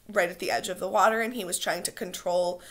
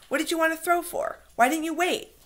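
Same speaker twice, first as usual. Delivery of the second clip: put-on angry boy; 10 semitones higher, 3 dB louder than usual. Jack angrily confronts Ralph.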